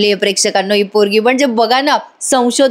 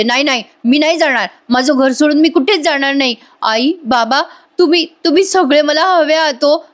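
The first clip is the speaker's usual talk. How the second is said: higher, clinging protest; desperate refusal; 5 semitones higher than usual. Retold or imitated. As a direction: refuse to leave home, pleading. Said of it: "Priya म्हणते". (नाटकी हट्टाने "मी नाही जाणार")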